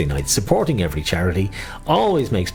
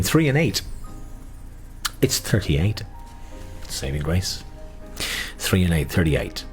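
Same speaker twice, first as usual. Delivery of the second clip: sing-song number calling; bingo caller; 4 dB quieter than usual. Acted. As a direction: lilt each number like a bingo hall.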